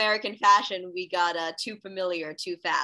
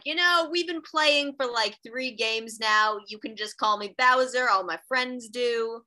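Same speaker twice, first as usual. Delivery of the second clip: put-on slow, drawn-out Bowser with a loose Brooklyn accent; amateur Brooklyn accent, stretching the words out; slower than usual. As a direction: do a casual, badly faked Brooklyn accent. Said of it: "a little bit with a Brooklyn accent".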